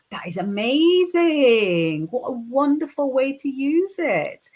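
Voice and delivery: amazed delight. Real, not acted. Delighted reaction to viewer's message.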